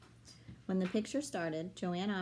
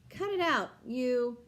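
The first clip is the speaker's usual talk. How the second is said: loud, higher yell; shout; 7 semitones higher, 8 dB louder, slower than usual. A narrator's reading. Boy punched in the gut yelling back at the girl. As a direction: snap back after the punch, loudly. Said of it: "Alex shouted".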